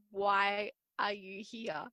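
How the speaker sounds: slow, incredulous retold question; mock-exasperated, spelling it out slowly; drawn-out exasperation. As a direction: stretch out each word, as if baffled.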